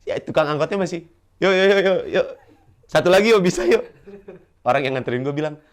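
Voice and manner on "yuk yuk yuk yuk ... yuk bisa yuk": calling angkot driver. Retold or imitated. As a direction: call out for one more passenger like a driver touting. Driver still calling passengers.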